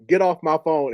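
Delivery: retold angry order, mildly heated; explosive. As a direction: order him off, imitating an outburst. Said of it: "At first, he was explosive".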